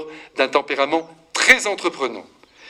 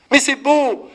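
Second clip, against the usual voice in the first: higher and louder, bursting with joy; delighted exclamation; 8 semitones higher, 4 dB louder, slower than usual. Real, not acted. Priest to his congregation about men raising war widows' children, joyful burst. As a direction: marvel out loud at it. Praising stepfathers who raised children.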